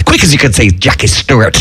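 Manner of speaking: put-on Scots patter; Scottish accent. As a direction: toss it out as a mock Scot. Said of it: "he has a great Scottish accent".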